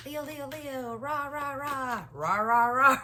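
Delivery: rah rah like a pep squad; cheerleader. Shown as a demonstration. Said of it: "Sound like a cheerleader".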